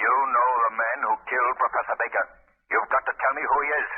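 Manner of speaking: a hint of the eerie unseen voice; the Shadow. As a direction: press him like a hidden interrogator. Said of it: "I'm the Shadow".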